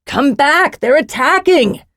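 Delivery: high, urgent narrated yell. A narrator's reading. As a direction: yell a warning to people running off. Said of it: "Jakaran yelled again".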